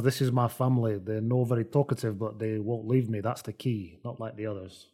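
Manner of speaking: fading into a creepy, intimate murmur; creepy hush. Retold or imitated. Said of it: "Which he introduces as".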